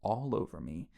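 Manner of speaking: a hint of a slow, breathy killer; lightly voiced, slow gruff menace. Killer answering the heroine's call, a light breathy growl. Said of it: "in a breathy, gruff tone".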